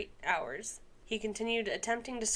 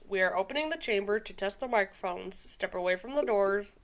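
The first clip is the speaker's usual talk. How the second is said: 1940s Russian voice. Acted. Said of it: "that's your nineteen forties Russian voice".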